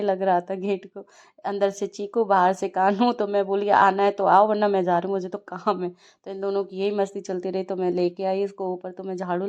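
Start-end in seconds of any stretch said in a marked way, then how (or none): 3.8-5.9 put-on raised voice calling the kid in; loud call to a dawdling toddler. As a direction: call him in, half-annoyed. Calling the child from upstairs.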